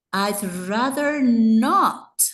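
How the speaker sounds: stretched, heavily stressed "not"; emphatic NOT. Shown as a demonstration. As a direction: lean long and loud on "not". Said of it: "generalmente enfatizado fonéticamente".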